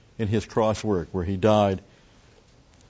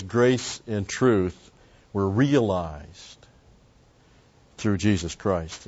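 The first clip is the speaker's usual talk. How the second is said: very slow, every word weighed; solemn slow reading of the quote; slow scripture reading; much slower than usual. Acted. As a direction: lean on each word of the verse.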